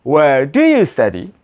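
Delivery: slowed repeat for pupils to copy. Shown as a demonstration. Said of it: "repeat sample after me".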